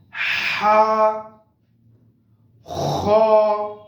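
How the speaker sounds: each letter said the Arabic way, short ba ta sa ha kha la; Arabic letter sounds. Shown as a demonstration. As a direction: model the Arabic letters slowly, one by one. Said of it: "pronounce them in following way".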